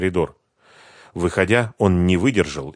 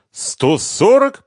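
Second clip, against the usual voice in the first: shocked; 9 dB louder, much slower than usual. Acted. Sister hears the true price.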